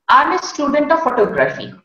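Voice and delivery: quick, run-together "I'm a student of photography"; no syllable stress. Shown as a demonstration. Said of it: "and syllable stress".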